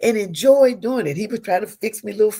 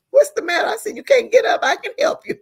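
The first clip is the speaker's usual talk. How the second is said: retelling laughter; 4 dB louder than usual. Retold or imitated. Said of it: "I'm laughing".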